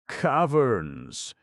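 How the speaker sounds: high, loud, joyful exclamation; beaming delight. Acted. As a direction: beam as you say it. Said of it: "beamed the gnome".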